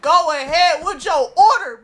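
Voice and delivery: slow, drawn-out mock irritation; retold fed-up drive-thru greeting; mad order-taking. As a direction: take the order with barely hidden annoyance. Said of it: "I'm over here mad as shit".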